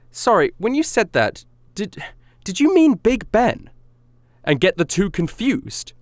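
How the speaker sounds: high, slow mock-polite question; politely puzzled correction, drawn out and high; tactful query. Quoting own tactful correction to rapper.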